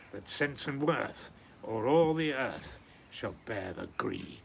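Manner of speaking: measured, weighty reading of a Scots poem; poem recitation. Acted. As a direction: recite it like a proud Burns Night reading.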